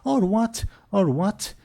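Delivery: high-pitched, cocky challenge; defiant dwarf. Acted. Dwarf daring Golgamash to act, high and defiant. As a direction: goad them as a scrappy dwarf. Dwarf defies the ogre chief.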